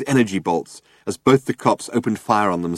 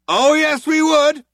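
loud, high warning; tough cop on a hailer; 6 dB louder, slower than usual. A narrator's reading. Cop warning Zaphod, loud and high. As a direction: lay down the law. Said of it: "shouted the cop".

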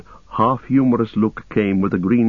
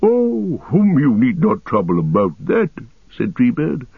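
ancient, unhurried ent voice; Treebeard voice; 3 semitones higher than usual. Acted. Treebeard offers a drink.

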